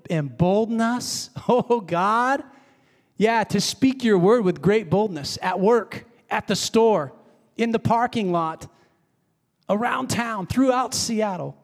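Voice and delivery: fervent prayer voice, building; spoken prayer. Pretend. Pastor leads the church in a bold prayer, fervent. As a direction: plead for boldness in prayer to God. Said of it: "we're gonna pray this".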